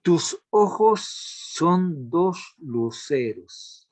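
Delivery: slow, weighty, each word laid out; slow example reading. Shown as a demonstration. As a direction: read the example line slowly for the class.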